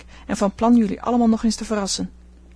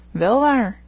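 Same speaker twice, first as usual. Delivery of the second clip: raised, higher contradiction; exclaiming; 4 semitones higher, 5 dB louder than usual. A narrator's reading. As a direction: call it out, louder and pitched up. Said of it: "riep Laurie". (luider uitgeroepen)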